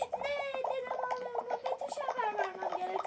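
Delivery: high-pitched startled question, then settling; acted alarm. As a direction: play a mildly shocked reaction. Another take of the reaction.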